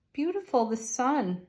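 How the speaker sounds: high, bright burst of delight; light up at the card. Real, not acted. Tarot reader sees the Sun card, excited and high.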